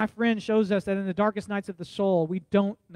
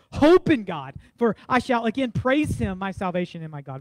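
preached scripture. Acted. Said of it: "he says".

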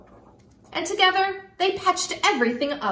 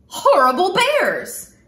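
fuming mutter; 4 semitones higher, 6 dB louder, slower than usual. Acted. Girl fuming while she tries.

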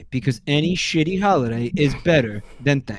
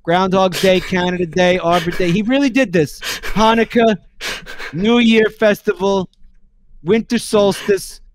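loud rapid list; 4 semitones higher, 4 dB louder than usual. Real, not acted. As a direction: rattle the holidays off, loud and high. Listing holidays louder and louder.

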